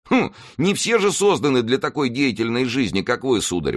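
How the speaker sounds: high-pitched, protesting retort; objecting. A narrator's reading. Planchet objects to his master's reproach, protesting. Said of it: "возразил Планше".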